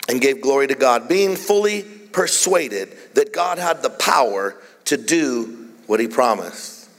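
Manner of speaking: measured, emphatic reading with weighted key words; scripture reading. Real, not acted. Preacher reading Romans to the congregation, deliberate emphatic reading. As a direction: read deliberately, stretching the important phrases.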